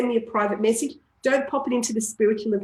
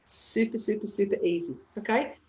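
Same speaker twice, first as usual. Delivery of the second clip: soft reassurance; 6 dB quieter than usual. Real, not acted. Reassuring wrap-up.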